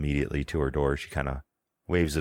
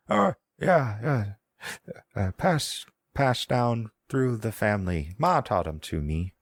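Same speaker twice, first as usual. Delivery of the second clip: put-on high old woman with an Irish-Scottish twang; high, lilting Irish-Scottish granny; old woman accent; 6 semitones higher than usual. GM voicing the old woman with an Irish-Scottish twang. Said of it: "I'm putting on the accent".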